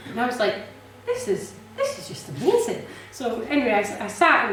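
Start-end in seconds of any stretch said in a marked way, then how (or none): 1.1-2.9 high, laughing, barely believing it; laughing amazement. Retold or imitated. To the cafe owner, laughing in high delight. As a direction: giggle through the words in delight. Retelling finding a flat.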